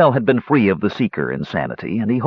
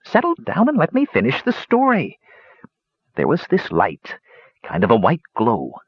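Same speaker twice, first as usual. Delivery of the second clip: put-on old dwarf yarn-spinner, pitched up; old dwarf hermit, storytelling; 7 semitones higher than usual. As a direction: tell the tale as a rustic old hermit.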